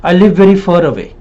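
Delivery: "far" said like "fur"; mouth not opened. Shown as a demonstration. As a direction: close up the vowel of "far" to "fur". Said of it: "You don't live far away".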